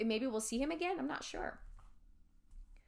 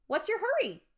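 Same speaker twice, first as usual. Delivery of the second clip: put-on high, loud teasing girl voice; ghost girl's voice; 10 semitones higher, 6 dB louder than usual. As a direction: taunt them from behind. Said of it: "a girl's voice said".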